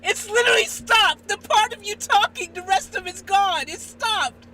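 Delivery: real loud, high-pitched alarm; alarmed exclaiming. Real, not acted. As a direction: exclaim loudly in disbelief. Video has just stopped playing.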